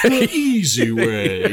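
slow, drawn-out imitation; exaggerated film quote. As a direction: stretch out both words in parody. Echoes the film impression, drawn out.

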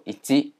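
一击 read as ichi; Japanese reading. Shown as a demonstration. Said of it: "在日文当中念作".

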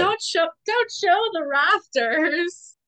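high, loud, slow begging; mock pleading. Viewer begging the show not to show the rafters, loud plea. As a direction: plead with the screen.

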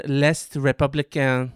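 French name leaned into mid-sentence; put-on French accent. Shown as a demonstration. Host reading news, put-on French accent on the name. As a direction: lay a French accent on L'Est Républicain. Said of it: "don't you hate when people do that".

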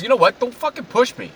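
high, agitated warning; acted high-pitched outburst; clerk's angry retort. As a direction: imitate a fed-up clerk warning off a customer.

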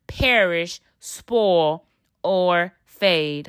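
measured Bible reading to viewers; scripture reading. Acted. Reading First Peter to her viewers, measured and reverent. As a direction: read it like a sermon passage.

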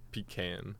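"pecan" as PEE-can; PEE-can pronunciation. Shown as a demonstration. Student saying it would taste better, "pecan" as PEE-CAN. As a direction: stretch both syllables of "pecan", PEE-CAN. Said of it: "if it was called pecan".

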